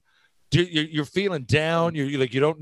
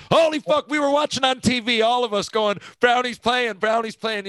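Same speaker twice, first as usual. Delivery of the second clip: excited; 8 semitones higher than usual. Real, not acted. Friend recalls watching Brownie's debut, high and excited. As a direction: blurt it out, thrilled and stunned at once.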